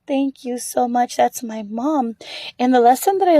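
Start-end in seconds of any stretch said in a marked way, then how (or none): 0.1-2.2 slow, gentle thanks in an imitated voice; smiling thanks. Lady thanks the little girl for her compliment, smiling and tender. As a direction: wind down into quiet, slow, heartfelt gratitude. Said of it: "the lady smiles and says".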